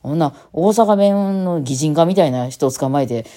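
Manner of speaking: 声を張って大阪弁でまくしたてる再現; 心外そうに、だんだん高く強くツッコむ; 大阪弁のツッコミ. Retold or imitated. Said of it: "ツッコミどころ満載". (大げさに抗議する関西弁ツッコミ)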